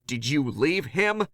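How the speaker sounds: loud, high demanding yell; yelling in panic at Nix. Acted. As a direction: shout the question at her. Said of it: "I yelled".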